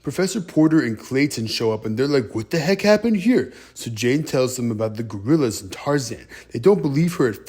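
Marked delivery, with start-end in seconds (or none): 2.4-3.5 higher-pitched, baffled question; mock bewilderment. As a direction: exclaim it like a startled newcomer. Explorers react to trashed camp.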